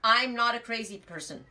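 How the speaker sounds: high and loud, hands-up whoa whoa whoa; head off the hay seller before he judges you; mock alarmed protest. To a hay seller, a loud, high mock protest. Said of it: "So I say".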